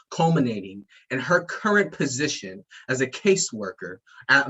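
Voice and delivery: Academy Awards voice; announcer voice. Acted. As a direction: read it like an awards show host. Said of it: "Academy Awards voice, like, my announcer voice".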